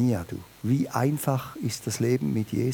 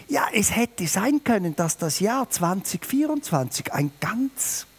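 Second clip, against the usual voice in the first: ordinary delivery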